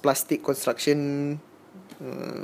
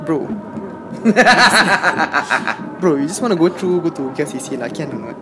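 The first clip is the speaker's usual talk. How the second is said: laughing, louder casual plea; louder pleading quote; 6 dB louder than usual. Retold or imitated. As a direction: beg it loudly, half laughing. Retold plea to police officer.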